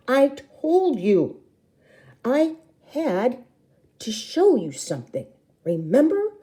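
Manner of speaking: put-on high, slow, insistent kid voice; a child reminding her sister; little sister voice. A narrator's reading. Little sister reminding big sister, high and insistent.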